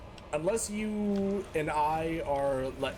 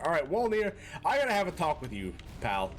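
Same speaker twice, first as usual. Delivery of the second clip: mock scolding; 4 semitones higher than usual. Scolding viewer Walner as boss.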